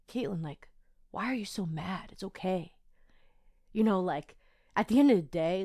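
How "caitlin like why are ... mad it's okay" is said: softly, gently reassuring; calm reassurance. Retold or imitated. Telling herself it's okay after the balloon, calmly. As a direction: talk yourself down, quietly and evenly. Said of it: "I just felt okay".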